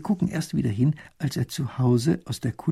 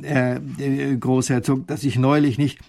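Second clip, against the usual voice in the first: panting; 4 dB louder than usual. Acted. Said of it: "fügt er keuchend hinzu".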